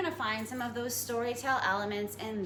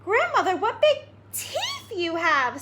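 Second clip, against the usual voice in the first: put-on scared girl; 8 semitones higher, 4 dB louder, slower than usual. Girl's final frightened question.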